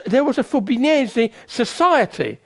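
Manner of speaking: Fubinese rolled off the tongue with relish, each syllable savoured; showy pronunciation. Shown as a demonstration. Preacher showing off to congregation, rolling Fubinese with relish. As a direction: roll Fubinese off the tongue like a proud linguist. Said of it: "the way I rolled off my tongue".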